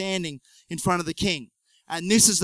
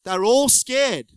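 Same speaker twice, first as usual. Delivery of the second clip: slow emphasis; 5 semitones higher, 5 dB louder, slower than usual. Shown as a demonstration. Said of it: "repeated for emphasis".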